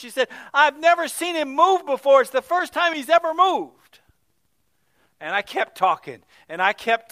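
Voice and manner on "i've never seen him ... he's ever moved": high, loud, amazed cry; a mother's stunned, rising exclamation; astonished. Retold or imitated. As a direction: let the shock lift the voice right up. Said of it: "she's astonished".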